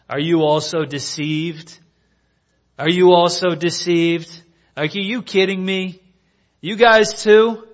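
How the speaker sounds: building from measured to high, loud disbelief; acted exasperation, climbing as it goes; incredulous anger. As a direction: berate them as if they've let you down. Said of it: "in them there is anger".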